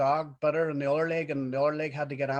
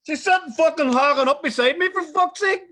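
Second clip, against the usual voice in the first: exasperated; 11 semitones higher, 6 dB louder than usual. Real, not acted. Father exasperated about daughter.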